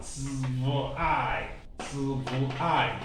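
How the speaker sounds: zwei stretched slowly into its sounds ts, v, ai; sounded out. Shown as a demonstration. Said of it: "then the E I flows".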